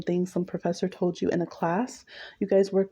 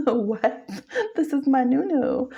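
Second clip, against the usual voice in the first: higher, louder, laughing disbelief; shocked laugh; 6 semitones higher, 3 dB louder, slower than usual. Retold or imitated. Performer stunned by the muse's put-down, laughing in shock. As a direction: gasp it out through laughter. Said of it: "You're like, shook".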